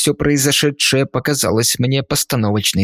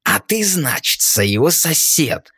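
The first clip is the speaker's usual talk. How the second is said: gurgling voice; 6 semitones higher than usual. Acted. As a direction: bubble the words out like a ghoul. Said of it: "булькал он".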